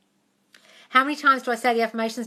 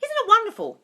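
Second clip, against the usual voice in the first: "Isn't it wonderful?" sung out much higher and louder; gushing delight; 12 semitones higher, 4 dB louder than usual. Shown as a demonstration. Showing viewers the affirmation, second take gushing high. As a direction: exclaim "Isn't it wonderful?" in high rapturous glee. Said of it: "You just keep saying".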